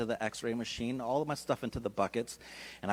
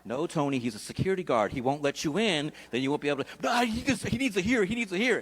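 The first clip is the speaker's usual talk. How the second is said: inner argument. Retold or imitated. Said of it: "having a conversation in my brain".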